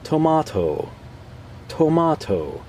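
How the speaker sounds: high, smooth mock female narrator voice; imitating a curated woman voice. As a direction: parody a polished AI announcer. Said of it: "the curated woman voice".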